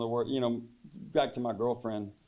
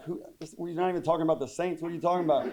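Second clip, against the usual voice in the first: baffled reply; 5 semitones higher, faster than usual. Retold or imitated. His baffled retold reply.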